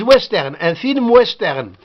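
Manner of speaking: "western" opening with a rounded w sound; w as English. Shown as a demonstration. Teacher showing how French says w in western, English-style w. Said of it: "Donc, we, ils le prononcent".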